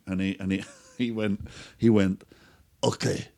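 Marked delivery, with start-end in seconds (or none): 2.8-3.3 higher, laughing mock Eastern European admission; sheepish joking confession. Drunk neighbour admitting to the narrator that he gave vodka, with a sheepish laugh. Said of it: "he knew he was telling a funny joke".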